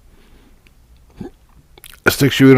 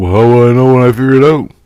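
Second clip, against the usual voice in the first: retold anxious question; 5 semitones higher, 7 dB louder, faster than usual.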